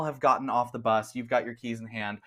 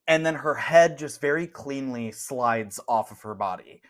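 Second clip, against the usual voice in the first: ordinary delivery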